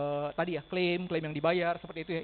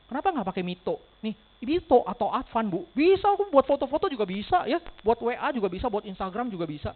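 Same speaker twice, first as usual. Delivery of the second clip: teasing sales pitch; 2 semitones higher, 4 dB louder than usual. Acted. Agent teasing client about cheap phones.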